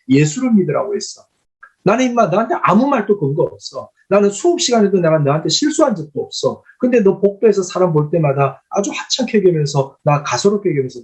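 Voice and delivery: mild mock scolding, pitch often lifting on the challenges; retold angry confrontation. Pastor confronting a student who slighted him, retold mild anger. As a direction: take a student to task, as retold.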